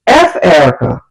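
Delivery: retold boyfriend's offhand dismissal; dismissive. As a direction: brush her off with a falling tone. Boy dismissing girl named, retold.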